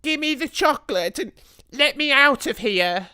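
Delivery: high, loud, wary demand; a boy growing suspicious, wants out. A narrator's reading. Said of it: "becoming suddenly suspicious".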